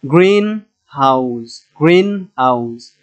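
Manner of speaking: গ্রিন stretched and punched, হাউস falling away; slow গ্রিন হাউস with weight on গ্রিন; stress on গ্রিন. Shown as a demonstration. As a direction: lean hard on গ্রিন, ease off হাউস. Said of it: "গ্রিনটা হচ্ছে আমাদের stress হবে".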